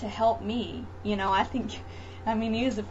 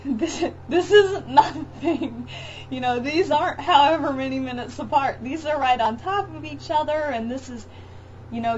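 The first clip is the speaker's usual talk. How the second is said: laughing while quoting; 4 semitones higher, 3 dB louder than usual. Retold or imitated. Scott reassuring her during labour.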